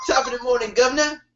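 high, hammed-up British accent. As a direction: play up a cheery British accent. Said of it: "You put an accent on".

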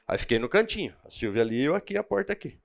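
ordinary talk

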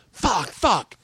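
high, self-directed cursing; mock frustration. Comic storms off after bombing, mock frustrated. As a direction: imitate someone cursing themselves. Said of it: "like, real in their head".

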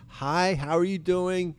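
slow, friendly hello; friendly greeting. Shown as a demonstration. Showing how to approach cops, slow friendly greeting. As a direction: greet them slowly, friendly as can be. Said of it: "Friendly as hell".

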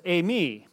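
eimi said slowly as AY-mee, both syllables clear; Greek word spoken slowly. Shown as a demonstration. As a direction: spell out eimi carefully, AY-mee. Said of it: "which is a form of the verb to be".

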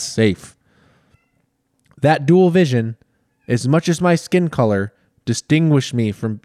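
lightly formal reading voice, a touch grand; reading a book aloud. Acted. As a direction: read it like a solemn presidential memoir. Reads Obama's book aloud.

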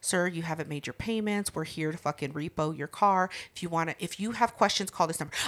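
soft, level driver voice; calm as shit. Retold or imitated. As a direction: stay flat and unbothered. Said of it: "calm as shit".

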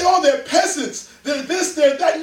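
mock snobbery. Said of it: "We say".

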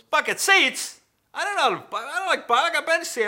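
high, shouted disbelief; loud indignant dad. Retold or imitated. Father sees the new car's seats, loud and indignant. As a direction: yell your objection as the baffled father.

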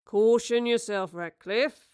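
a slow, teasing warning with a smile; Robert teases Charles with a smiling warning. Acted. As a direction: wag a finger playfully. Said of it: "Robert smiled".

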